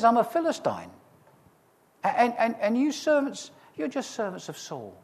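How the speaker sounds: high, mocking giant's taunt; a lightly voiced boastful Goliath jeering across the valley. Preacher voicing taunting Goliath.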